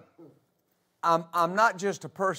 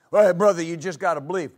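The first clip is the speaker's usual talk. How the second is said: a louder hearty "hey, brother" then a light mock; mock churchgoer cliché; 3 semitones lower, 4 dB louder, faster than usual. Preacher mocking what people say at church, lightly voiced. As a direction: lightly imitate a glib church pal. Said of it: "that phrase is just bantied about".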